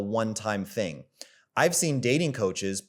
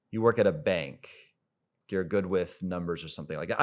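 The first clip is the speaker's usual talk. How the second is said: calm. Shown as a demonstration. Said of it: "And then I bring it back".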